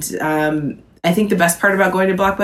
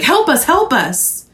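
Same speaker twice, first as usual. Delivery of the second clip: mock panic; 8 semitones higher than usual. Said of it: "running and screaming, saying, like".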